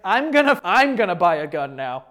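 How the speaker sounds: worked-up outburst, settling as it goes; getting heated mid-reading. Real, not acted. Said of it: "I'm getting heated".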